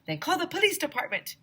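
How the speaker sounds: put-on excited child shout. A narrator's reading. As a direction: yell it back. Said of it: "I shouted".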